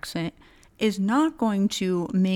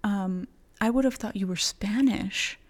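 whispered quote; 2 semitones higher than usual. Retold or imitated. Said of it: "she was like".

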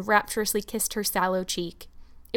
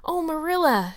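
breathless, whispered, higher gasp of excitement; breathless exclamation; 7 semitones higher, 4 dB louder than usual. Acted. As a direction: burst in out of breath with news. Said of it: "she exclaimed breathlessly".

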